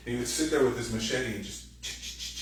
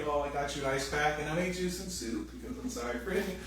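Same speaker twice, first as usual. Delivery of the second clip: mock sweet apology; 3 semitones higher than usual. Mock apologetic partner quote.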